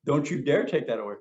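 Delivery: loud, fast firm objection; firm refusal. Retold or imitated. To somebody who told him not to be afraid, a firm protest. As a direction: defend your fear forcefully. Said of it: "And I said".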